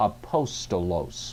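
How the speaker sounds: Apostolos, third-from-last syllable po stressed. Teaching the one way to accent the word: stress on antepenult of apostolos. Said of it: "Accent on the antepenult".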